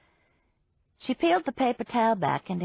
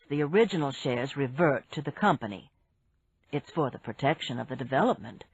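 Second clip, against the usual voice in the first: lightly voiced man; 5 semitones lower than usual. Barry voiced by narrator.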